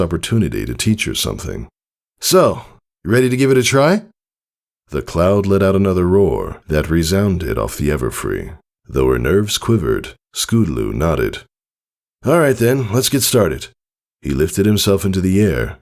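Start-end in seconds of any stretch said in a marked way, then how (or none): 2.2-13.7 lightly voiced father, upbeat; rally her to start; eager father. Father urging daughter on, upbeat.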